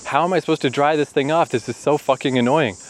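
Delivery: mock frustrated outburst. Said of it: "it's just like".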